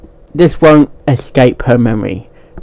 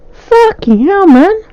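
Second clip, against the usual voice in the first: high, exasperated swearing at himself; fed-up cry of annoyance; frustrated outburst; 3 dB louder, slower than usual. Real, not acted. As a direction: vent at the flubbed take. Frustrated at botched intro retakes.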